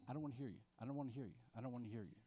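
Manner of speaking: soft, sulky murmur of refusal, said over and over; quiet refusal. Retold or imitated. Believers closing their Bibles against God, soft sulky refusal. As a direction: mutter it to yourself, shutting the Bible. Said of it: "essentially we're saying".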